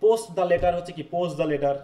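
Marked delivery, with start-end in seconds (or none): 0.0-0.7 "post the letter" as "pos-the letter", slowly; dropped t. Shown as a demonstration. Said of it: "post ঠ টা নেই". 1.1-1.7 "post the letter" as "pos-the letter"; dropped t. Shown as a demonstration. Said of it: "post ঠ টা নেই".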